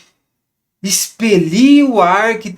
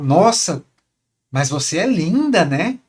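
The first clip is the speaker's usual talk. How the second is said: different tone; slower than usual. Shown as a demonstration. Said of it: "com vários tons diferentes".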